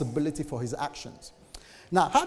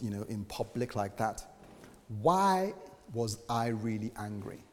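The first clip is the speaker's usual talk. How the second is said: quiet reflection; 3 semitones lower, 5 dB quieter than usual. Acted.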